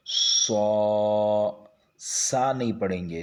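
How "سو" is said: سو with a heavy saad s, not a light seen; saad sound. Shown as a demonstration. Teacher corrects students: سو with the saad sound. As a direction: say سو with the thick ص sound. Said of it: "اسے صاد کی آواز نکالیں گے".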